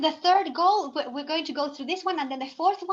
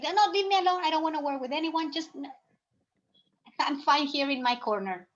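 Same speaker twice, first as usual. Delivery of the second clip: sulky student. Retold or imitated. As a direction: push the teacher away like a withdrawn student. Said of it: "It's like".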